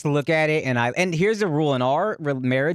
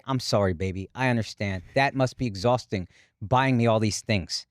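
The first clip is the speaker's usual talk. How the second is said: mock sweet wife; 8 semitones lower, 4 dB quieter than usual. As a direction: lower and softer, doting apology. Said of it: "I want her to say".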